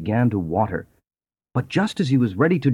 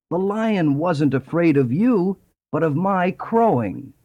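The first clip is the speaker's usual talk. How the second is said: rooster voice; 7 semitones higher than usual. A narrator's reading. Rooster explaining over body.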